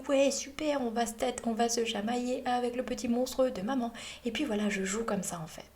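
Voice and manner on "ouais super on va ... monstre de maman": higher, playful monster voice; overjoyed little monster. Acted. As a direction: cheer like a mischievous little monster. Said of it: "il est trop content". (petite voix rigolote de monstre ravi)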